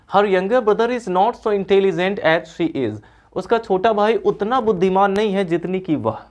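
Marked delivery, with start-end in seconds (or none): 0.1-2.9 slow, every word clear; slow reading. Shown as a demonstration. Teacher slowly rereading the original sentence. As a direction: read the sentence slowly for comparison. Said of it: "तो देखिए क्या दोनों का same sense है?".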